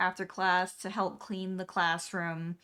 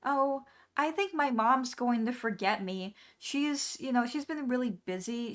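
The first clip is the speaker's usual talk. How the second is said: put-on higher, sweet little girl voice; lightly voiced young girl; other girl's voice; 3 semitones higher than usual. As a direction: chirp it like a resigned classmate. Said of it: "and she's like".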